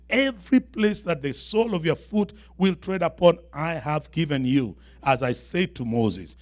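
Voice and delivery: emphatic scripture reading. Acted. Reads God's promise from scripture.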